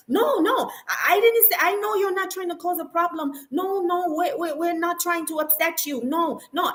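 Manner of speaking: imitating a nervous man backpedaling; flustered staff voice. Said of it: "And he's like".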